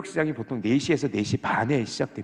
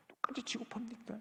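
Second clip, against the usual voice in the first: whispered, breathy repeat of the grievance; whispered complaint; 10 semitones higher, 17 dB quieter than usual. Retold or imitated. Preacher repeating the worker's grievance to the congregation, in a whisper. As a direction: let the complaint sink to a whisper.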